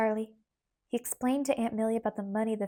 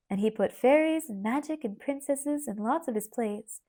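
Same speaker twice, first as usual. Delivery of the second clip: teacherly; 2 semitones higher than usual. Acted. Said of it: "in her teacherly manner".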